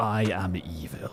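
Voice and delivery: low, soft, hushed, sinister villain voice. Showing what he sounds like when he has a cold: Darth Sidious voice. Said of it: "the stupid stuff I would say".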